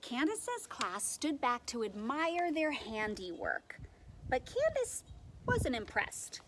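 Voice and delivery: put-on animated read-aloud for young children; expressive storytime reading with lightly acted quotes; picture-book narration. A narrator's reading. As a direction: tell it like a picture book, leaning on key words.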